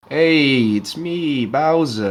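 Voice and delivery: lightly voiced Italian American accent; a hint of a New York Italian American tough guy; Italian American Bowser. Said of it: "like, slightly Italian American".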